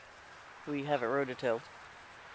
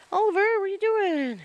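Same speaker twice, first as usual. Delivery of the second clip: high, loud call across the yard; 5 dB louder than usual. Real, not acted. Owner calls out to the wandering dog, loud and high.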